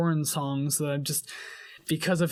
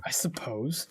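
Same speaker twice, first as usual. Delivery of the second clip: whispering; 5 semitones lower, 7 dB quieter, slower than usual. Real, not acted. Grudging reply.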